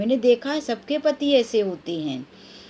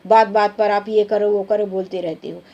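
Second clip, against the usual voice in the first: louder, mock telling off the husband; pretend scolding; 3 dB louder than usual. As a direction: snap back at him in pretend. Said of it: "आपको डांट दूँगी कि". (पति को डाँटने की नकल, तेज़ आवाज़ में)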